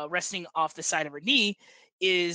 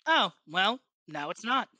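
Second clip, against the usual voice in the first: Armentine Ward; 2 semitones higher than usual. Acted. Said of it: "a very heavy Ondarian accent".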